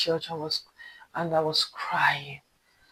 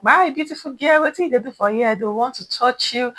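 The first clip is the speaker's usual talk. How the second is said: higher-pitched, wheedling catcall; a hint of a pestering flatterer; lightly voiced street harasser; 5 semitones higher, 4 dB louder than usual. Men harassing her at the bus stop, lightly mimicked coaxing.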